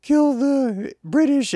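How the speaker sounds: hammed-up high-pitched alarm about being attacked; panicked patriots. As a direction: shriek like a hysterical crowd whipped into war. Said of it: "to love their people said".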